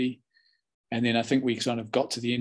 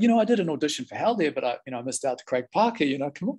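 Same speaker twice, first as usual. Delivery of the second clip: hammed-up boast; 3 semitones higher than usual. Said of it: "I sort of hammed it up a bit".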